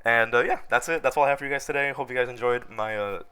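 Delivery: hoarse sick voice; talking with a cold. Real, not acted. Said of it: "my, my sick voice".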